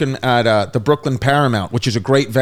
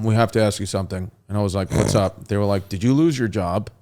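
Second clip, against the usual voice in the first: put-on kids' worried question; 5 semitones lower, 5 dB quieter, faster than usual.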